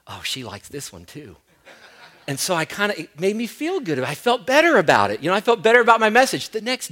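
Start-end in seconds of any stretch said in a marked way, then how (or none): 0.1-1.4 soft, laughing thought to himself; quiet self-amused aside; amused inner thought. Retold or imitated. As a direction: chuckle at your own vanity. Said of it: "and I thought".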